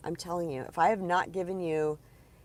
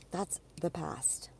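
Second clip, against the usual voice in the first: hushed whisper; gentle whispered reassurance; 8 dB quieter, slower than usual. Real, not acted. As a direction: drop to a whisper. Soft aside to viewer.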